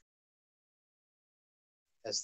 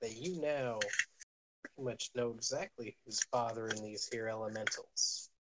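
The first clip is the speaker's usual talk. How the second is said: put-on a faint leftover Southern country accent; 4 dB quieter than usual. Game master still narrating, a light country accent. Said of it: "And I'm still doing it".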